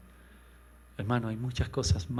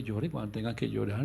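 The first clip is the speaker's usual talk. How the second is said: ordinary delivery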